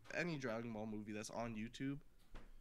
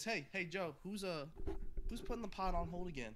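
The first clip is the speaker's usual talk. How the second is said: higher, louder mocking impression of a friend; mocking imitation; 6 semitones higher, 3 dB louder than usual. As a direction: parrot him back mockingly. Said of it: "All I'm hearing is".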